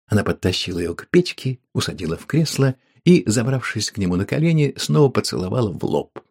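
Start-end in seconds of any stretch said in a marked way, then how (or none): none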